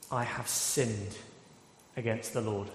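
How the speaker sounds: 낮고 느린 고백; humble confession. Retold or imitated. David's confession, quoted solemnly.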